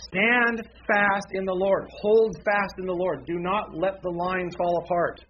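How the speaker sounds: rally the congregation with a loud, high charge; emphatic proclamation. Acted. Preacher proclaiming Paul's battle exhortation.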